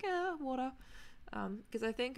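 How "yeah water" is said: mock American water with a hard r, wah-der; light American take on water; imitating Americans. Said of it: "They're like".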